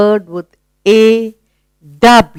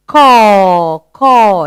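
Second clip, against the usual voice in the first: crow call. Retold or imitated. Teacher imitating the crow's sound for the class. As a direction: caw caw like a crow. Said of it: "he says".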